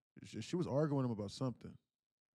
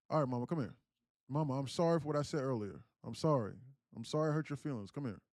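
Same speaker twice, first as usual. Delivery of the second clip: insistent, slightly raised apology; retold apology; 3 semitones higher, 5 dB louder than usual. Son to silent mother after argument, pleading apology. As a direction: imitate a son coaxing mom to answer.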